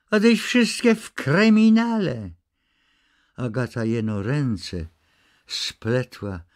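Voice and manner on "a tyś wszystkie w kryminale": sharp high cry of anguish, much higher; cry of pain. A narrator's reading. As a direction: break out in a pained, shocked cry. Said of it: "w niemałym krzyku boleści".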